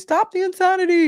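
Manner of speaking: high, loud mock fitness-guru shout; high hammed-up infomercial catchphrase; imitating Susan Powter. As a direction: belt it like an eighties infomercial. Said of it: "She says".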